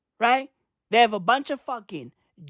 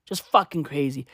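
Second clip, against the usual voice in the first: ordinary talk, nothing marked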